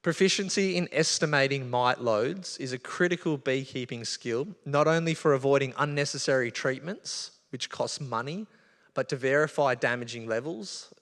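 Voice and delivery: measured reading of a key statement to an audience; deliberate reading. Real, not acted. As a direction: read it out carefully, a little slowly. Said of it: "I wanna read this slowly".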